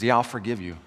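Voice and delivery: acted stern judgment, held low; God. God passes judgment on the people, grave and low. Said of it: "that's judgment then".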